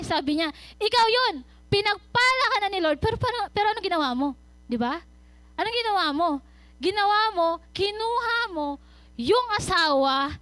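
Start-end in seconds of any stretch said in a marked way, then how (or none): 0.8-8.5 scolding prophet. Retold or imitated. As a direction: press the question home, accusing. (mahinahong pero mariing paratang)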